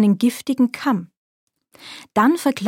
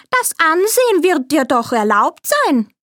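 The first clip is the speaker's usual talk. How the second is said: alte Krämerin; 6 semitones higher than usual. A narrator's reading. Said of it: "sprach die Alte".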